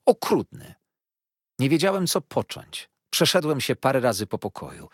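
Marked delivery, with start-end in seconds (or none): 0.1-0.8 mild weepy wail, high and loud; tearful reproach. A narrator's reading. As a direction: Dora cries out at her husband, tearfully wounded. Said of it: "płakała Dora".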